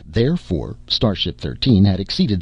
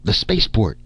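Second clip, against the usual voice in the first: shout; 4 semitones higher than usual. Acted. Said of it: "shouted Brunei".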